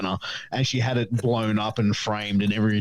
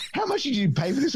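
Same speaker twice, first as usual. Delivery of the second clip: dad; 14 semitones higher, faster than usual. Retold or imitated. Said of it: "And he goes".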